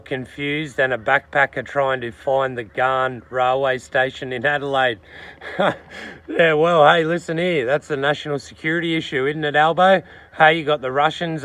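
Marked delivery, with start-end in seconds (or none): 5.2-6.2 short soft breathy laugh; brief chuckle at your own joke; quick, quiet laugh. Real, not acted.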